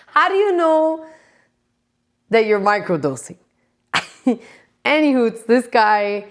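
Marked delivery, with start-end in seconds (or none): 0.1-3.4 breathy laughing disbelief; laughing whisper. Real, not acted. To viewers about microdosing meth, laughing whisper.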